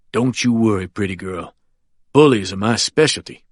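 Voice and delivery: put-on smiling at a frightened child; confident old lawyer. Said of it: "with a confident smile".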